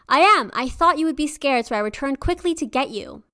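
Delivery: lightly voiced coaxing visitor. Disguised tigress at the door.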